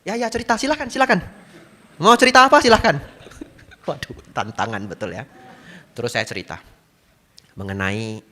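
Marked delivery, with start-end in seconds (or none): 0.1-3.0 dismissive. Retold or imitated. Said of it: "saya bilang begitu".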